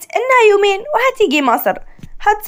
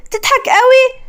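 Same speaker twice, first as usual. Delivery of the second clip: irritated laugh; 7 semitones higher than usual. Acted. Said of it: "عشق بغيظ".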